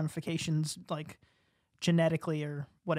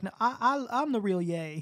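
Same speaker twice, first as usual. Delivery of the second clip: indignant rapper; 4 semitones higher than usual. Retold or imitated. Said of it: "He's like".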